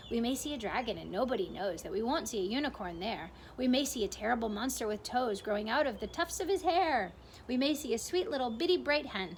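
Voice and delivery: lightly voiced centipede reciting with relish; poem recital. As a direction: rattle off the rhyme with gleeful menace.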